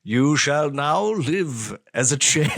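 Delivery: lightly voiced evil wizard; mock-solemn wizard's spell. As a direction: slowly pronounce a curse like a hammy wizard. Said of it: "some evil wizard was like".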